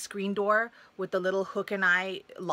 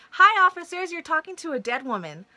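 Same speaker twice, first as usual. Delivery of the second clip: sarcastic greeting; 9 semitones higher, 6 dB louder than usual. Retold or imitated. Cops arrive three hours late.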